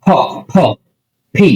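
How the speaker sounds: "ফ" and "ফি" released from closed lips with a puff; isolated, aspirated "ফ" as a teacher's demo; aspirated P sound. Shown as a demonstration. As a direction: close both lips, then pop out "ফ". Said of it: "যে দুই চোখ বন্ধ থাকবে".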